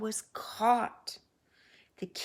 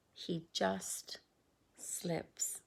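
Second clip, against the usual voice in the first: fading to a whisper; 3 semitones lower, 6 dB quieter, slower than usual. Acted. Slipping away, fading.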